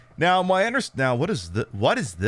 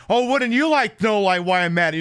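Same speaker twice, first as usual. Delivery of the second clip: taunting tease; 7 semitones higher, 4 dB louder than usual. Retold or imitated. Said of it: "And we're like".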